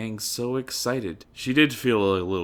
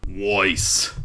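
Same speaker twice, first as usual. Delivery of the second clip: laughing; 6 dB louder than usual. A narrator's reading. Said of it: "Yang said with a smile".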